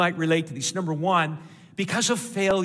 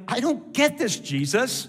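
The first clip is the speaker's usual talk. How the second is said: confused; 4 semitones higher than usual. Acted. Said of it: "we are so confused".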